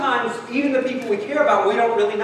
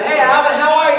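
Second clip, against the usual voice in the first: lightly acted hello, lifted in pitch; retold friendly greeting; 3 semitones higher, 3 dB louder than usual. Young man greeting Alvin at church, casually friendly.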